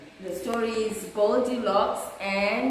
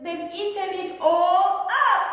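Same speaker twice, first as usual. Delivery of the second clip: high sing-song little bear voice, higher and louder; crying baby bear; 9 semitones higher, 5 dB louder than usual. A narrator's reading. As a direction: squeal it like a tiny upset cub. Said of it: "cried Baby Bear".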